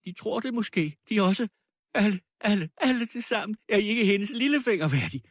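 high, frantic tirade; wild screaming voice. A narrator's reading. Dying widow begging the crowd to defend the girl, wildly. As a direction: wail and rail at everyone, desperate. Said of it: "skreg med vild stemme".

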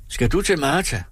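a mild shout over the gale; shouting into storm. Acted. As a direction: call out against the storm. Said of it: "råbte han til hende i stormen".

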